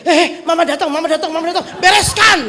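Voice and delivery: put-on a kid scrambling before Mama walks in; child warning sibling. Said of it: "dia bilang ke adik dia". (anak panik berbisik-teriak ke adiknya agar beres-beres)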